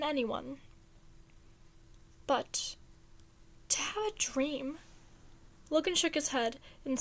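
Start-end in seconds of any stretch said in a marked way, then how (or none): 2.3-4.8 whispered longing; wistful whisper. A narrator's reading. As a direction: breathe it like a secret wish.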